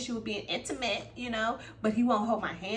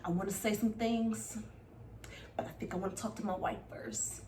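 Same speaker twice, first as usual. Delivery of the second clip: 1 hushed hesitation; 8 dB quieter than usual. Retold or imitated. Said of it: "Johnny was just sitting there like".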